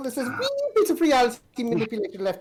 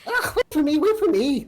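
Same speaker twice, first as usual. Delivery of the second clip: higher, louder little voice hurrying after; tiny kobold calling; 5 semitones higher, 4 dB louder than usual. Acted. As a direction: call out breathlessly to catch up. Tiny DM scrambling after Shock.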